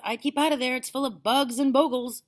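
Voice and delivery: put-on high, loud boy's warning; calling out. A narrator's reading. Boy warning grandma of attic, calling out. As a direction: call up to warn her. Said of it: "George called out".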